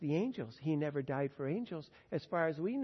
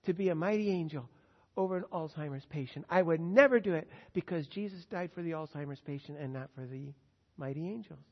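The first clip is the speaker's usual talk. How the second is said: firm refusal; 7 dB louder than usual. Retold or imitated. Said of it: "you say".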